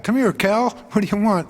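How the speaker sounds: high, cocky summons to a star driver; brash casual call. Retold or imitated. The speaker mimicking how Dave bossed Cal around, cocky call. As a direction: boss the famous driver over, half joking. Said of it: "a guy that talks like that".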